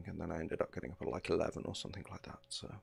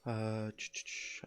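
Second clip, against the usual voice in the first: hiccuping between words; hiccups; 3 semitones higher, 5 dB quieter, slower than usual. Real, not acted. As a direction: caught mid-hiccup. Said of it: "got the hiccups".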